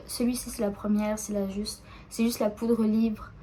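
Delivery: dry mouth, tongue sticking; struggling to talk with a dry mouth. Real, not acted. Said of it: "J'ai la bouche sèche".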